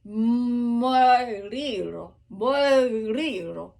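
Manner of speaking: Mariro drawn out slowly, stress on the riro; slow diction demo. Shown as a demonstration. Singer drilling Mariro slowly for students. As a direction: lift up onto the riro. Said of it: "get up on the riro".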